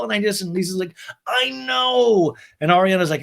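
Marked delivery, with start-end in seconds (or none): 1.3-2.3 high, loud, drawn-out mock sympathy; Lisa. Recapper playing Lisa sympathizing with Ariana, exaggerated high voice. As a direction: gush it in a put-on high voice.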